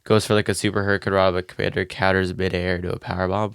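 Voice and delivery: stuffy, blocked-nose voice; congested. Real, not acted. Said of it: "You sound congested".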